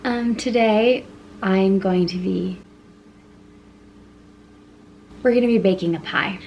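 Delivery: slightly winded while talking; out of breath. Real, not acted. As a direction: speak a little out of breath. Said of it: "Why am I out of breath?".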